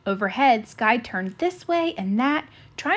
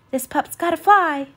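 exclaimed; 6 semitones higher, 5 dB louder than usual. Acted. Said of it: "Sky exclaimed".

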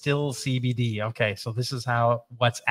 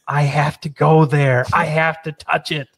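mock yearning molecule; 3 semitones higher, 3 dB louder than usual. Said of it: "they're like".

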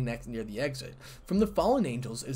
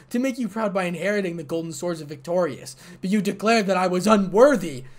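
louder and louder, rising to a pained cry at the end; anguished outburst; 3 semitones higher, 6 dB louder than usual. Acted. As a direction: pour out years of hurt at your mother. Daughter pleading with her mother.

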